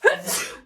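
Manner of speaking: voiceless sneeze; acted sneeze. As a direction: sneeze in a run. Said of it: "another sneeze attack".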